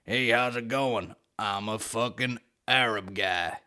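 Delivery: slow, lightly voiced cowboy; John Wayne. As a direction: stretch it out like a laid-back cowboy. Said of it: "he takes the John Wayne approach".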